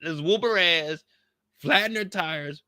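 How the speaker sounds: high, slow put-on woman's voice, rising to a shrill peak; a hammed-up high voice, soaring at the end; mocking her. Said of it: "She pulled up and said".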